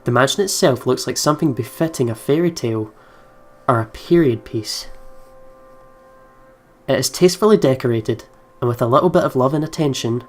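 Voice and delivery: even, measured narrator read; story narration. Acted. Game player reading the narration text to viewers, in a calm narrator voice. Reads the game's narration aloud.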